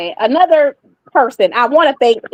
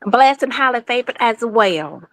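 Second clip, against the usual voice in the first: Southern country accent. Real, not acted. Caller returns the host's greeting, Southern country accent. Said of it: "you sound like a old country girl".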